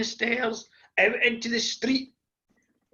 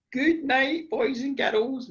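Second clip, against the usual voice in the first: lightly voiced granny, higher pitch; granny's bedtime goodnight; 4 semitones higher, slower than usual. Granny tucking in the grandchildren, lightly voiced bedtime goodnight. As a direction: sing out a granny's goodnight, slightly raised. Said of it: "So she said".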